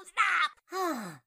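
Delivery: shrieking through laughter; squealing no, laughing helplessly; being tickled. Acted. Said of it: "Fauna reached over and tried tickling him".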